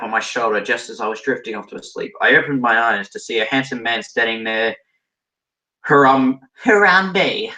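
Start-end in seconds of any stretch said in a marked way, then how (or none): 5.8-7.5 high, loud squeal of recognition; excited screech. Acted. Narrator spotting a handsome Harambe, excited screech. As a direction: screech the name out, pitched way up. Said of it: "I screeched excitedly".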